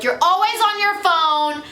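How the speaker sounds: mock parent scolding a kid about the phone; lecturing parent. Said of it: "they'll be like".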